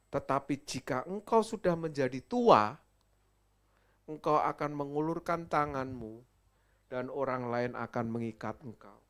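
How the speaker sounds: loud proclamation. Acted. Preacher voicing Jesus's prophecy.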